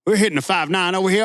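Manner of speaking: fast, high trucker radio chatter; redneck CB voice. Retold or imitated. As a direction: trucker bragging over the CB. CB radio role-play.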